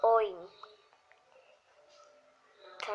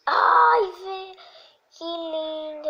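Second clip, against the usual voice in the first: high squeal of delight, much louder; 6 semitones higher, 12 dB louder, slower than usual. Real, not acted. Admiring her own painted room, high excited squeal. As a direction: gush over the painting.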